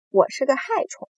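high, loud declaration; proud announcement. A narrator's reading. Centipede seeking approval for being a pest, proudly proclaimed. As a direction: announce it with a grin. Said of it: "蜈蚣宣布道".

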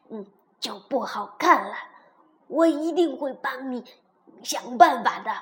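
low, croaky-talking frog, coaxing. Acted. Frog comforts crying princess, coaxing. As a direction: play a frog offering help.

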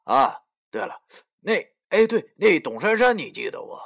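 mocking, laughing through the words; sneering laugh. Narrator taunts Youxi about Dong Shanshan, laughing coldly. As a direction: taunt him with a cold chuckle. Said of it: "继续冷笑着对他说".

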